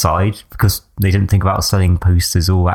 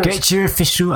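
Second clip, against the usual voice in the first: put-on Northern English accent; 8 semitones higher, 4 dB quieter than usual. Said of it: "I can't do a Northern accent".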